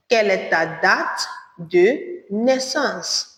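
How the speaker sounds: de naissance drawn out slowly; slow repeat. Shown as a demonstration. Teacher repeats the question slowly for learners. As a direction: stretch de naissance slowly, syllable by syllable. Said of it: "Or you say".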